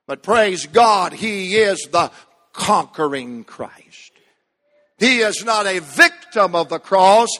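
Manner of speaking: rhythmic preacher cadence; full-voiced sermon delivery; preaching. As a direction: preach it with building fire.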